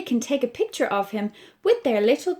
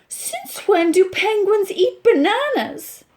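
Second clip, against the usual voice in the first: high, indignant question; mock outrage at the shopkeeper; a touch of annoyed disbelief; 8 semitones higher, 5 dB louder than usual. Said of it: "seriously annoyed".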